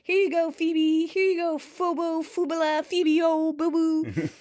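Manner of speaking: high, sing-song babbling of nicknames; eager bounding return. Retold or imitated. Chandler brings Phoebe's book, excited. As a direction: imitate gleeful fussing over a friend.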